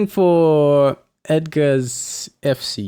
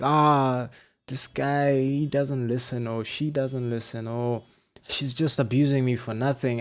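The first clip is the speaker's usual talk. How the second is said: grumbling student; 5 dB quieter than usual. Retold or imitated. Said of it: "they're mad at the instructor".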